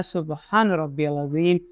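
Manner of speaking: सुबहान रब्बियल अज़ीम slow, with a clear z in अज़ीम; correct azeem. Shown as a demonstration. Teacher reciting the correct अज़ीम slowly. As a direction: recite अज़ीम carefully with the z sound. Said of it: "तो अज़ीम पढ़ना है".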